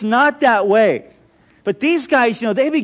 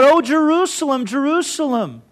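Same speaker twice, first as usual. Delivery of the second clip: a heartbroken cry over the city, easing to a mild ending; mild mock lament; 2 semitones higher than usual. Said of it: "Jesus cried out".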